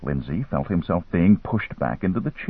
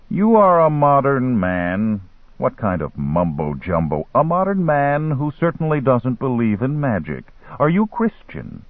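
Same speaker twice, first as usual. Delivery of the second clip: lightly voiced dealer, higher-pitched, probing; a hint of a taunting merchant, pitched up; caftan dealer; 4 semitones higher than usual. Dealer challenges Lindsay's disbelief in magic, lightly voiced in a higher pitch.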